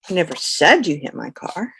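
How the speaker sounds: said lifted above the rest; the stress falls on said. Shown as a demonstration. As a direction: punch the word said. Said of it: "For example".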